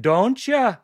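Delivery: put-on botched Irish accent drifting toward Minnesotan; comic bad Irish-Fargo lilt; Irish slipping into Fargo. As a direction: attempt Irish and land in Fargo. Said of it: "now you're in Fargo".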